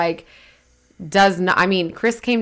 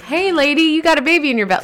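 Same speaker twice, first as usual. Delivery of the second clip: put-on high, fast, singsong child; creepy kid voice; 7 semitones higher, faster than usual. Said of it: "walking around like".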